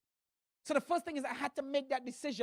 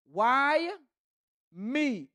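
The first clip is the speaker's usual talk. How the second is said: mock self-pitying question; 3 semitones higher, 7 dB louder than usual.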